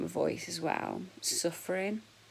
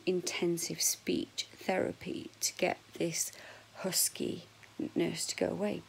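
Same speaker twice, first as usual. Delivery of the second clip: husky voice; slower than usual. Real, not acted. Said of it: "I prefer my voice like this".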